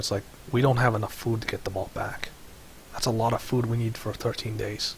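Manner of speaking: hushed whisper. Calling the group over to speak privately, whispering. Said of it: "like I'm whispering".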